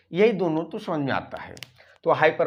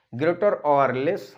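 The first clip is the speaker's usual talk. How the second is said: slow dictation; 4 dB louder, much slower than usual. Shown as a demonstration. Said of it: "dictating phrase".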